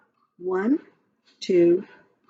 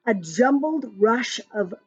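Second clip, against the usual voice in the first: lively sing-song rhyme reading; reading to children; slower than usual. Acted. Parent reading a rhyming story app to a child, sing-song. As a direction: read the verse brightly to a little one. Reads bird verse aloud.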